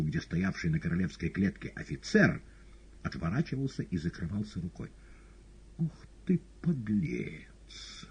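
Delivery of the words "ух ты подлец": pensive. A narrator's reading. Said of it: "задумчиво сказал Воланд".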